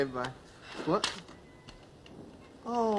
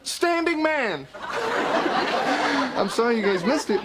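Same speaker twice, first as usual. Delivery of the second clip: excited; 5 semitones higher, slower than usual. Acted. Proud of baby standing.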